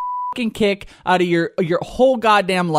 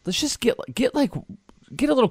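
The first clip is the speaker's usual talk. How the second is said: urging caveman yell; 8 semitones higher, 4 dB quieter than usual. Shown as a demonstration. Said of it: "get cavemanish for a minute".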